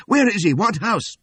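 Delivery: high, loud desperate shout. A narrator's reading. Wounded fugitive begging to be taken to Lincoln, high loud shout. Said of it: "I shouted".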